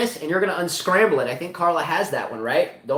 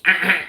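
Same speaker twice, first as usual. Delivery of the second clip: short mock buzzer grunts; imitated wrong-answer buzzer; 3 dB louder than usual. Host joking about missed trivia questions, mock buzzer noise. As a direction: grunt twice like a game-show rejection. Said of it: "some questions go".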